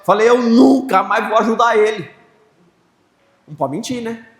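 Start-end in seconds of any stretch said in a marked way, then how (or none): 0.3-2.1 louder, fed-up complaint; annoyed vow. Retold or imitated. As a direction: grumble that you are done helping. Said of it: "reclamando com Jesus". (reclamando com Jesus, irritado)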